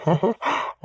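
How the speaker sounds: short high-pitched chuckle; amused laugh. Acted. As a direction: let out a brief, soft giggle. Husband amused by wife's face.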